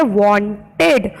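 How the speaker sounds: वांटेड said in two clear parts, "won" then "ted"; syllable demo. Shown as a demonstration. Teacher showing two sounds in a word, syllable demo. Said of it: "इसमें दो sound है".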